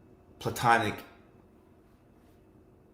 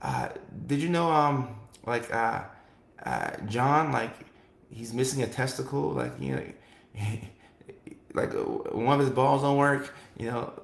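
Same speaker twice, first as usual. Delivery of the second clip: pillow-talk gossip; 3 dB quieter than usual. Retold or imitated. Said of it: "They'll be pillow talking".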